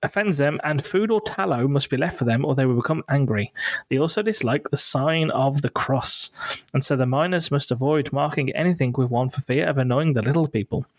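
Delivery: measured read-out of a folklore blurb; reading aloud. Real, not acted. Host reads the knockers blurb out for the listeners, measured reading. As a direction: read it out steadily in your normal accent.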